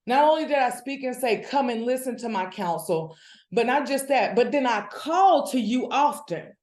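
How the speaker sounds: quickening, fired-up preaching; getting excited. Real, not acted. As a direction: let the excitement build as you quote. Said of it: "my voice is changing because I'm getting excited".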